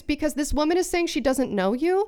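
exasperated, emphatic retelling; retold firm confrontation. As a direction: lay down the law, re-enacting an argument.

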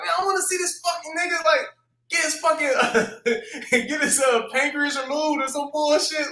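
mock eager fan. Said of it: "You're like".

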